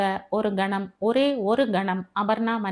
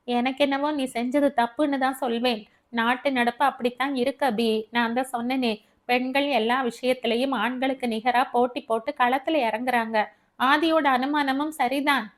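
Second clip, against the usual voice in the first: lightly voiced friend, pitch a little raised; disapproving Devi; 3 semitones higher than usual. Devi tells Abi she was wrong, lightly voiced candid disagreement. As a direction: argue the point as a candid friend.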